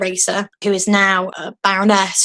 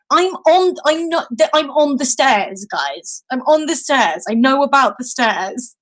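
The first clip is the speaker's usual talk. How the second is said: acted protest, pitched up at first; exasperated retort; 5 semitones higher than usual. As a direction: fend off an over-eager helper. Acted reply to shrieking helper.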